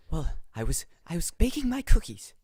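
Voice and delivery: put-on high, loud old lady voice; elderly lady fretting, pitched high; Grandma Shallard. Grandmother explaining her evening, fretful old lady. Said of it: "do the Miss Shallard voice".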